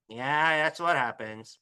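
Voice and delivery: low, soft teacher reply; low-key, sinking answer to an eager kid; unimpressed chem teacher. Retold or imitated. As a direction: lightly imitate an underwhelmed teacher. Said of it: "That's how he talked".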